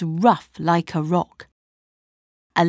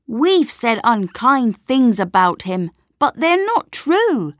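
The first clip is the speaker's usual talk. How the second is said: put-on boy's voice rising much higher; earnest little boy setting it right; Jack; 4 semitones higher than usual. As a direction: Jack telling the town they were wrong, earnest. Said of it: "said Jack".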